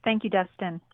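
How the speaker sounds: phone line sound; over the phone. Real, not acted. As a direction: voice through a telephone line. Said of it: "I'm on the phone right now with".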